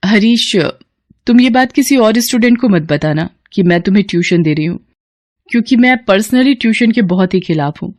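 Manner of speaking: a daughter rushing out the door; young woman Kamya. Acted. Kamya sets condition. (ऊँची आवाज़ में जल्दी-जल्दी, बेटी का अंदाज़)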